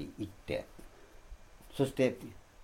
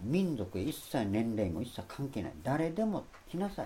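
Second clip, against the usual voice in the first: higher, fervent preacher's call to all; Jesus calling out that all who thirst may come, fervent and raised in pitch; impassioned invitation; 6 semitones higher than usual. Retold or imitated. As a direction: plead with everyone to come, pitch lifted. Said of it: "イエスは立ち上がって大声で言ったんだと".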